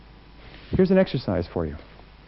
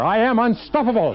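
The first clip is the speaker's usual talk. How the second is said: much higher and louder rallying call; even bigger; 10 semitones higher, 4 dB louder than usual. Shown as a demonstration. Speaker urging the audience one more time, loud and high. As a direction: push it up to the top of your voice. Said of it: "Once more".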